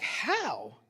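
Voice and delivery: high, stunned question; baffled how. Retold or imitated. Listener left stunned by the narcissist, baffled question. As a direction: ask it in disbelief.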